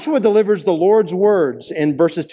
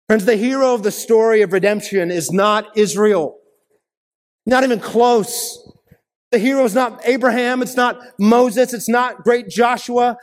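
building preaching; 5 semitones higher than usual. Real, not acted.

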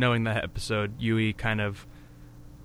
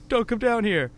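mock shout; 10 semitones higher than usual. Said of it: "then he's like".

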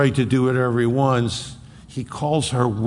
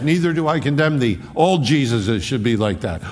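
flippant mock quote. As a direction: rattle off Neither do I condemn thee like an easy excuse. Culture's preferred half, flippant.

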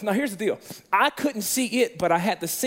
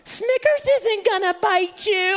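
high, slow, sing-song mock reassurance; dog owner brushing off the fear in a high mock voice; 9 semitones higher, slower than usual. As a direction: put on a cutesy voice as if the dog were harmless. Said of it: "They're like".

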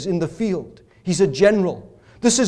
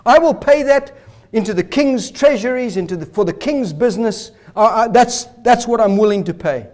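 eager promise; 3 semitones higher than usual. Retold or imitated. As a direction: sell the offer to the king. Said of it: "That's what he says".

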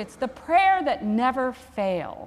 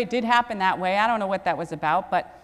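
usual speaking voice

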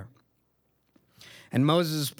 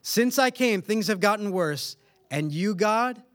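higher-pitched, indignant retelling; aggrieved accusation; 5 semitones higher than usual. Retold or imitated. Preacher paraphrasing Moses to God, aggrieved accusation. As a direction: lay the blame in a raised pitch.

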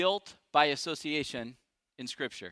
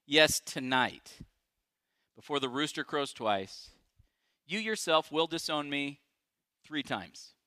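solemn Jesus; 2 semitones lower, slower than usual. Retold or imitated. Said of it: "Jesus answered".

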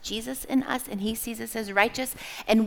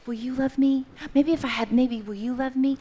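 put-on pleading baby bird; 4 semitones higher than usual. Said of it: "be like that bird and go".

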